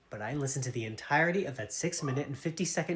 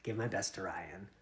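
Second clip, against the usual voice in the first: softer, slower, a syrupy send-off; lightly mocking tender farewell; mock loving; 8 semitones lower, 12 dB quieter, slower than usual. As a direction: imitate a tender sign-off, softly and slowly. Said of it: "Very lovingly".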